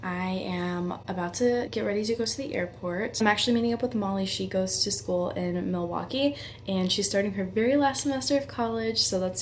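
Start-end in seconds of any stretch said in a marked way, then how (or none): 0.0-3.2 drowsy, low early-morning voice; sleepy. Real, not acted. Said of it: "Sorry if I sound a little sleepy".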